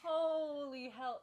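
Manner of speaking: loud, slow, stretched out in shock; slow stunned exclamation. Real, not acted. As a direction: drag it out in disbelief. Stunned reaction.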